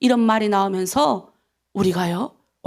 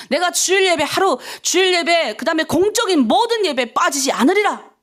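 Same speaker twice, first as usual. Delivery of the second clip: higher-pitched declaration of resolve; resolute vow; 4 semitones higher than usual. Shown as a demonstration. Preacher models a vow never to miss worship, resolute. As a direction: vow it firmly before God. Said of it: "이게 다 결단이에요".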